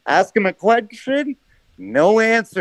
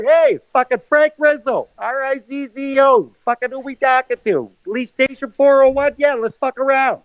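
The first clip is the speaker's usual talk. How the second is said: higher-pitched prank-caller impression; Frank Rizzo; 5 semitones higher than usual. Prank caller introducing himself to the station, lightly hammed-up. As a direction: lightly put on a brash prank-call voice. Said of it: "we're gonna go in the Jerky Boys".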